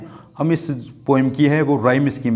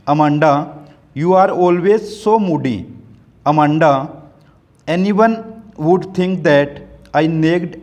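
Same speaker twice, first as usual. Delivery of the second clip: slow poem reading; much slower than usual. Acted. Teacher reading the poem's nagging mother lines aloud, slow recital. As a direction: read the mother's scolding lines slowly aloud to the class.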